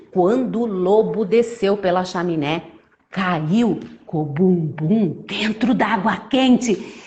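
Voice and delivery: put-on lively story narration for children; animated storyteller, key words punched; children's storytelling. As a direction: tell it like a tale to little ones.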